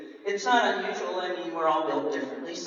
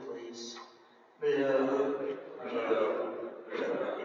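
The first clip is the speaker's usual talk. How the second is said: glum pout fish. Acted. Fish replies with pout refrain.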